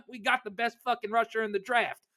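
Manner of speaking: put-on tossing off a Southern-accented quote from the draft room; mock Southern accent. Host imitating the Colts GM's draft footage, mock Southern accent. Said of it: "Was that an offensive Southern accent?".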